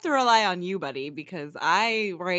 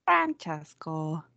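slow drawn-out echo; 2 semitones lower, much slower than usual. Pretend. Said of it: "You need to echo everyone".

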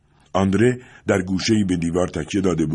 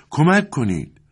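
high, louder call, a touch far off; cry for help again; 9 semitones higher, 4 dB louder, slower than usual. A narrator's reading. The same voice in the yard cries out again, shouting. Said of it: "دوباره این صدا بلند شد".

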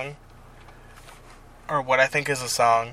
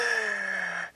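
laugh; 7 semitones higher, 7 dB quieter than usual. Real, not acted. Laughs after own panic impression.

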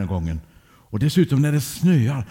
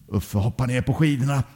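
ordinary delivery, nothing marked

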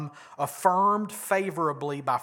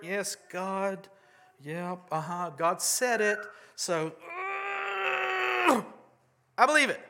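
mock Abraham; 3 semitones higher than usual. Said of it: "Abraham did not do the math".

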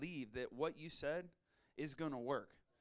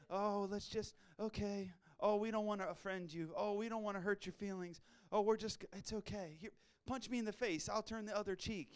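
lightly voiced timid churchgoer; mock a meek, apologetic believer; mock wimpy Christian; 3 semitones higher than usual. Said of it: "the Diary of a Wimpy Christian stuff".

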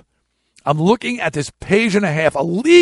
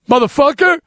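high, loud curse hurled at a giant; higher, louder cry of defiance; retold defiant yell; 10 semitones higher, 4 dB louder than usual. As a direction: shout it back at the man throwing you out. Yelling at the gym owner.

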